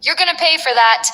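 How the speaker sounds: shaking with fury. A narrator's reading. Vice general manager threatening Blaze after being thrown, furious. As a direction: spit the threat out in anger. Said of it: "voice shaking with fury".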